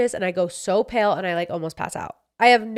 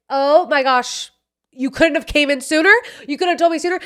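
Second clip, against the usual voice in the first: mock-whine at the nurses for making you wait; exasperated complaint; 7 semitones higher, 4 dB louder than usual. Complaining to the nurses who laughed at her, exasperated and higher.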